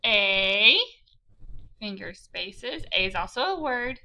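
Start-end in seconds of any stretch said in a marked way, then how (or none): 0.0-0.8 I said firmly, louder; loud, deliberate dictation; dictating each word. Shown as a demonstration. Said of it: "I'm going to say". 1.8-2.8 finger spaces stretched slowly and softly; soft, slow classroom cue; slow reminder. Shown as a demonstration. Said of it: "teacher demonstrates spacing".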